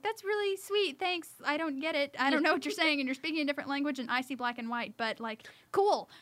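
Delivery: high-pitched voice for a clueless, friendly dog; Piper the dog. Acted. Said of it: "and she's like".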